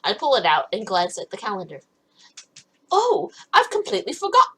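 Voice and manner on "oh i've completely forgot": high-pitched British accent; proper British accent. Real, not acted. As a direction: slip into a posh-sounding British lilt. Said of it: "She became proper British?".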